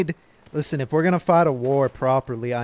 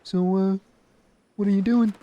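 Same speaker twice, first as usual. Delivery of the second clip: mock New Zealand accent, pitched higher; 6 semitones higher than usual. Shown as a demonstration. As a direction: demo a lilting Kiwi question. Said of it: "New Zealand kinda more like".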